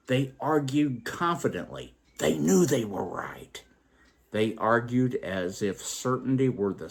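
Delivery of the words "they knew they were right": whispered. Acted. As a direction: breathe it as a whisper. Aside about arguing men.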